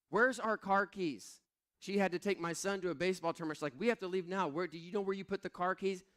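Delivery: mild imitation of a rushed wife; urgent wife. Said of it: "my wife texts me and says".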